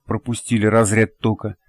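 usual speaking voice

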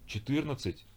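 high, stunned «Четырнадцать?» as an asking repeat; boy repeats the number, shocked; stunned question. A narrator's reading. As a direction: echo «Четырнадцать?» in disbelief, rising high.

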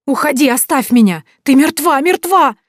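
screaming at a ghost in terror; terrified scream. A narrator's reading. (панический крик ужаса)

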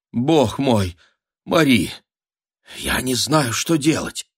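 high, frantic mother's voice; a panicked countess at night; mother wailing in a whisper. A narrator's reading. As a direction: wail it out, half-hushed. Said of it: "шепотом голосила мать".

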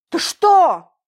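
high, loud shocked yelp; startled outburst. A narrator's reading. Man hit by ice cream, shocked cry. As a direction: jump up and blurt it out. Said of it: "вскочил он со своего места".

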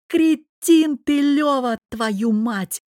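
very high, very loud yell; furious husband yelling down the phone, very loud; yelled at top volume. A narrator's reading. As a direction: scream it, drawn out. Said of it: "завопил я на верхней границе децибел".

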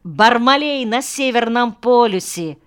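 put-on high, excited child's call; children shouting. A narrator's reading. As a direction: clamour for the favourite tale. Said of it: "закричали дети".

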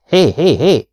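loud, high interrupting calls; shout. A narrator's reading. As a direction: cut in sharply to break up a row. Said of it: "mister Shears ordított". (hangos, magas, közbevágó kiáltás)

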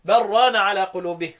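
slow recitation run straight through, no break after "عوجا"; slow recitation as the other reciters read it; recitation without pause. Shown as a demonstration. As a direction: recite all four places without any pause. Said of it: "يقولوا إيه؟".

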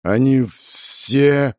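very slow sick man's rasp from the grave; halting, drawn-out graveside croak; sepulchral rasp. A narrator's reading. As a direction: drag the words out like a dying man. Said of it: "захрипел загробным голосом больной".

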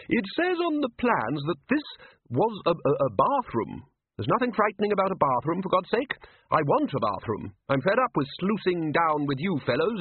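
put-on high-pitched, bluff old wizard grumbling; blustering Arch-Chancellor. A narrator's reading. Ridcully complains to the senior wizards, in a high blustering voice.

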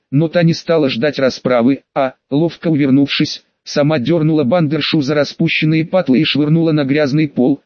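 ordinary delivery

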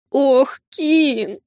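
mock wail to win pity; tearful. Maid to her mistress's enemy, tearful whine. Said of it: "плаксивым голосом заговорила Ирина".

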